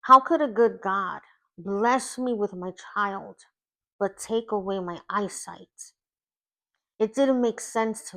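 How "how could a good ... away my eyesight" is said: retold scream. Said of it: "I remember screaming many times".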